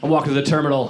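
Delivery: ordinary talk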